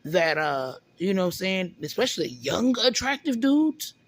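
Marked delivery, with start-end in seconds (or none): 1.8-3.9 mildly sarcastic disbelief. Real, not acted. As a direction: voice their view with light sarcasm. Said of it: "And I'm being sarcastic".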